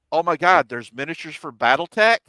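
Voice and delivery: loud, amazed rush of joy; like a kid spotting treasure; excited gasp. Retold or imitated. Excited young self retold.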